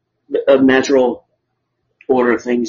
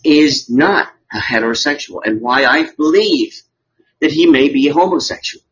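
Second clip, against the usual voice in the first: honeyed southern lawyer drawl. Acted. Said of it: "Ladies and gentlemen of the jury".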